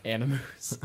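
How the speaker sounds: "Animus" said like weeb slang "animu"; mock "animu". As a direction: say "Animus" as a joking anime slang word. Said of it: "he calls it animu".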